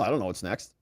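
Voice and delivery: "I don't know what's next" dropped low and soft; trailing mock shrug. Trump shrugging off mail-in voting, fading. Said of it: "He says".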